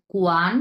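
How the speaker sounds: "কোয়ান" held level and sustained; first tone. Shown as a demonstration. Teacher demonstrates tone one, level syllable. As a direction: hold "কোয়ান" evenly without dipping. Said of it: "প্রথম tone".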